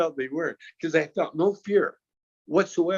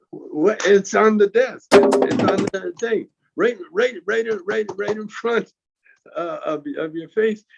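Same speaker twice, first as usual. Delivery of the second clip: incredulous retort; 6 semitones higher than usual. Retold or imitated. Incredulous retort to searching cop.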